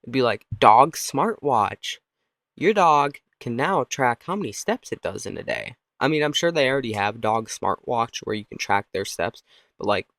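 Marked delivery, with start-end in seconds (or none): 0.6-5.8 mock product commercial; punchy pretend advertisement; ad read.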